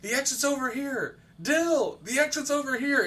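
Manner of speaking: high-pitched imitation of a friend calling out; Eddie's voice. Monster mimicking a dead friend lures a player, high calling voice. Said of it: "using Eddie's voice going".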